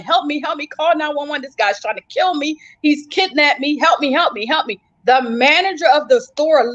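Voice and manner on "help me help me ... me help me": retold cries for help. Fleeing woman begs Arby's for rescue, retold cries for help. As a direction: retell frantic cries in a raised pitch, restrained volume. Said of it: "screaming and yelling".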